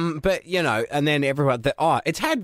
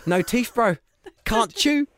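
higher cartoon whale, rising on "chew"; 8 semitones higher than usual. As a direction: say it like the beached whale. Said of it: "I end up sounding like the whale".

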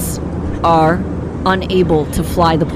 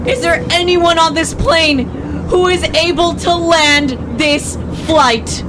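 higher and slower, a mock-urgent cabin call; urgent flight attendant; 10 semitones higher, slower than usual. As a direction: play the flight attendant asking the plane for help. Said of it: "Flight attendant says".

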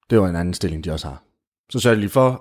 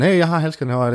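calling out; 7 semitones higher than usual. Acted. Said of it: "hun selvfølgelig råber sådan".

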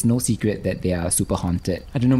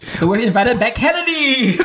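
laughing; 14 semitones higher, 4 dB louder than usual. Pretend. Teasing joke about absent host.

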